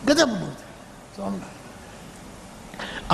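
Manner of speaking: very slow, whispered wonder; awed whisper. Real, not acted. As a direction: breathe it out in awe. Awe at Somnath. (ધીમો, આશ્ચર્યભર્યો ફફડાટ)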